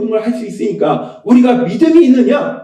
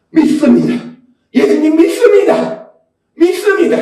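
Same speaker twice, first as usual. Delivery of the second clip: mild mock cry of faith, raised pitch; retold shout; 4 semitones higher than usual. Father crying out to Jesus, retold shout. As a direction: call it out as the father's instant answer. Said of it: "곧 바로 그냥 소리치는".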